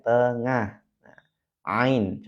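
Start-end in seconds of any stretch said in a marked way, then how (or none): 1.6-2.3 "ain" opened from the middle of the throat. Shown as a demonstration. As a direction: let "ain" start in mid-throat. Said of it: "coba dirasakan ya". ("ain" dari tenggorokan bagian tengah)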